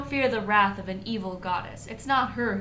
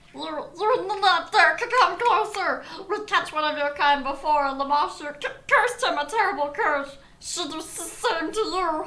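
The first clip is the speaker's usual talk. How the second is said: wavering, quavering, high-pitched goblin howl; 8 semitones higher, 5 dB louder than usual. Narrator voicing the bravest goblin shaking his fist at you, howling in a quavering voice. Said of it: "howls at you in a quavering voice".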